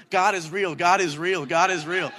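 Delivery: loud, insistent repetition, each line hammered; preachy kid yelling the same words over and over; fervent shout at a classmate; retold shouting. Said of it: "shouting at this kid".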